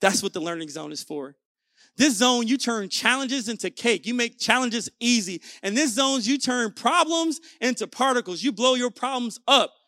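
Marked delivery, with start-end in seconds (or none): 2.0-9.7 rising hype. Real, not acted. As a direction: pump the crowd up.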